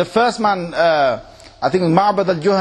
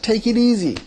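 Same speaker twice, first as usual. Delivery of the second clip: calming; 4 semitones higher than usual. Retold or imitated. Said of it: "I said".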